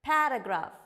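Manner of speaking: "paragraph" as PARA-graaf, first syllable punched; model pronunciation. Shown as a demonstration. Teacher reading the next word, emphatic model pronunciation. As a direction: say "paragraph" carefully, ending in F.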